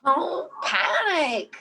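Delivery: slow, steady reassurance; drawn-out calm, a nervous laugh; slow soothing words. Acted. Calming Mike.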